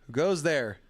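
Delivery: put-on playful old-time sentry calling out; mock sentry challenge. Host alone hearing someone outside, mock-dramatic challenge. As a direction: challenge the unseen visitor like a hammed-up watchman.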